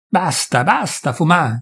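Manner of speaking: understated call to stop; a touch of a shout; mildly voiced shout. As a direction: narrator calling the peasant off.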